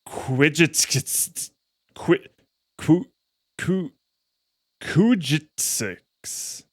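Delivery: Kujitsix slowly sounded out, syllable by syllable; stretched, halting Kujitsix; sounding out a name. Real, not acted. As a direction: feel your way through Kujitsix. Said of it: "How would we pronounce this?".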